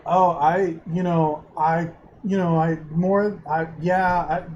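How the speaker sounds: faltering nervous stammer; stumble, restart, trail off; stuttering. Acted. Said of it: "he just stutters the whole time".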